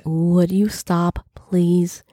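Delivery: slow unvoiced whisper. A narrator's reading. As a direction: whisper it slowly, inward. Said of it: "saying in my head".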